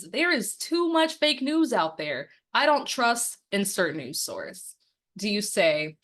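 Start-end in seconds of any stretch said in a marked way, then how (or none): 0.0-4.7 neighbor's complaint. Shown as a demonstration. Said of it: "Your neighbor says".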